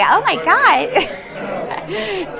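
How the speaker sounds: very high, drawn-out squealing Oh my God; peppy cheerleader. Retold or imitated. Explaining her American Glinda, a very high slow peppy squeal. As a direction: squeal it like the most popular girl in school. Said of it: "really, like, peppy, kind of, really".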